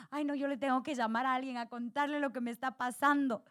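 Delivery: fast, anxious inner voice; anxious rush. Retold or imitated. Burdened woman rushing to call a friend. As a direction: rattle it off like someone desperate to vent.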